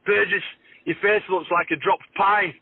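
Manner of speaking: James Graham. Retold or imitated. Player quoting his rival's on-field insult, drawn-out high impression. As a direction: mimic a heckling opponent, slow and high. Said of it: "do a bit of an impression".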